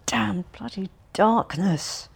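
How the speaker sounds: under-the-breath whispered curse; a barely voiced grumble; muttered. A narrator's reading. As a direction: hiss it to yourself in the dark. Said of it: "muttered Ganin".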